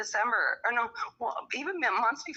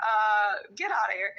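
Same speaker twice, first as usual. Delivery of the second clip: dismissive shout; 4 dB louder than usual. Retold or imitated. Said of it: "I'm like".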